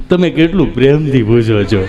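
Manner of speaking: low put-on voice for the patient; low mimicked answer; patient's reply. Smitten patient answering nurse.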